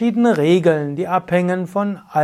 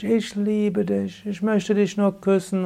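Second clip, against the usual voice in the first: tender lover's voice; 3 semitones higher, 5 dB quieter than usual. Retold or imitated. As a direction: breathe it out like a smitten lover. Lover's words in a relationship.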